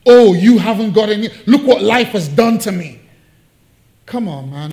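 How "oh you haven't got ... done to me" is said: louder whining self-pity; hammed-up poor-me moan; mock bitter complaint. Preacher mimicking a bitter person who blames life, whiny. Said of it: "There's no bitterness in this woman".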